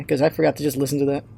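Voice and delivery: ordinary talk, nothing marked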